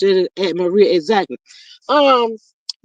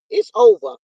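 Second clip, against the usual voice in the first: high exclaim; 10 semitones higher, 4 dB louder than usual. Real, not acted. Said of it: "Boy, God".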